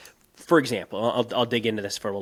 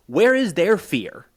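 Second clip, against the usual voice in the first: higher, louder and slow, leaning on each word; retold rant; 7 semitones higher, 5 dB louder, slower than usual. Host demanding where Russia's fear went, slow and loud. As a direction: hammer the question home. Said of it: "I was kind of ranting about".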